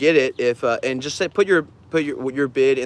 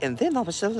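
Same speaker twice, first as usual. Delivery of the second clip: muttering; 7 semitones higher, 6 dB quieter, much faster than usual. Retold or imitated. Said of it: "muttering shit".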